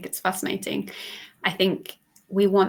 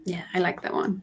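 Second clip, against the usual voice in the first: whisper. Real, not acted. Soft aside to co-host.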